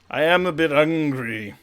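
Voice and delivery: big hungry troll. Acted. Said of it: "the troll says".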